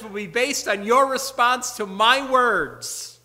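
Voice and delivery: loud, high, slow emphatic declaration; ringing, measured pulpit pronouncement; bold proclamation. Acted. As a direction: drive each word home with authority. Preacher proclaiming Jesus's bold claim.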